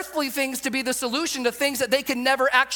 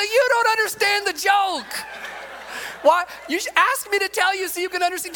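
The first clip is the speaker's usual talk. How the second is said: animated dad scolding; 10 semitones higher than usual. Retold or imitated. Dad lecturing laughing son.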